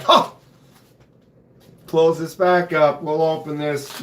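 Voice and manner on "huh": short mock gasp of surprise; retold startled gasp. Streamer retelling his peek into the box, mock gasp. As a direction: act out a sudden startled "huh". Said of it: "I was like".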